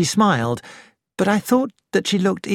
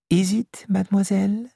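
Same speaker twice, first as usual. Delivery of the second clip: gently; 5 semitones higher than usual. Acted. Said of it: "asked Poirot gently".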